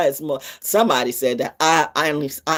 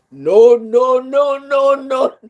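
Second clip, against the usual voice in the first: laughing; 7 semitones higher, 5 dB louder, slower than usual. Real, not acted. Laughing protest.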